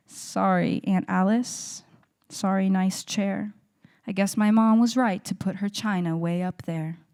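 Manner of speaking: loud but level closing lines, paused; poem recitation. Acted. Niece apologizing to her aunt at poem's end, measured recitation. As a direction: deliver the apology in measured, separated phrases.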